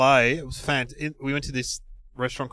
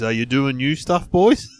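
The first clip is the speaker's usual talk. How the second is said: lightly imitated star, lifting into the last word; Robin Williams; 4 dB louder, slower than usual. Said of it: "And he goes".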